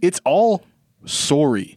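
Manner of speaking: Albertan sorry. Retold or imitated. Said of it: "Which I don't think is the Albertan accent".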